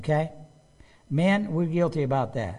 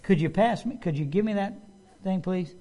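polite request; 4 semitones higher than usual. Retold or imitated. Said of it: "Instead of saying".

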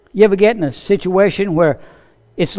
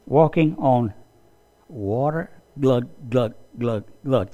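sinking doubt; 5 semitones lower, 8 dB quieter, slower than usual. Acted. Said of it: "see his mind go".

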